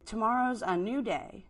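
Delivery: Sarma, evasive. Acted.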